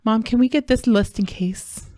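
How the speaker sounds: put-on child's question with "list in case" said as "lust in case"; imitating son's speech issue. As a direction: ask like a little boy, L for J in "list in case". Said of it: "just a speech issue that he has".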